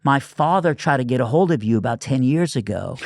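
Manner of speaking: imitating young woman. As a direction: voice her shy, stumbling request. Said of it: "She goes".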